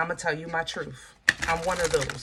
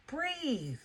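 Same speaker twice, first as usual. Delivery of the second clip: soft breathe; 7 semitones higher, 8 dB quieter than usual. Shown as a demonstration.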